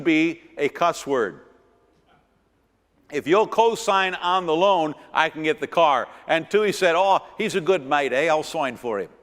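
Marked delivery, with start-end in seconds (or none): 3.1-6.1 put-on a friend pleading in a mild New Zealand accent; Maori accent. Friend asking Tui to co-sign, mild New Zealand accent. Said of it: "That was his accent". 7.0-9.1 put-on Maori accent. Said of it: "That was his accent".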